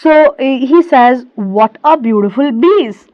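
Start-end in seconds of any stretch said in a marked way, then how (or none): 1.3-3.1 light German-accented quote; hint of a German accent. Shown as a demonstration. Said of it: "This is again German accent".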